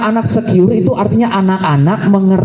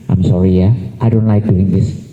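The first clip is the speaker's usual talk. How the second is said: soft apology; 11 semitones lower than usual. Retold or imitated. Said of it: "kita peluk".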